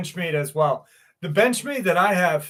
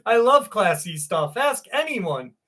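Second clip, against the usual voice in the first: mock-proud comment read; 5 semitones higher than usual. Shown as a demonstration. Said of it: "such a funny fucking comment".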